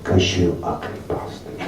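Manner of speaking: low, slow, deadpan insult; blunt Japanese accent. Retold or imitated. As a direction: drop it low and flat through a laugh. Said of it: "looked at him and said".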